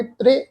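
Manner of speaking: ਤ੍ਰੇ short and light, a brief e; touch ਤ੍ਰੇ lightly, without opening to "trai". Shown as a demonstration. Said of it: "ਪੋਲਾ ਜਿਹਾ ਉਚਾਰਨ ਕਰਾਂਗੇ". (ਤ੍ਰੇ ਹਲਕਾ ਜਿਹਾ, ਛੋਟੀ ਆਵਾਜ਼ ਨਾਲ)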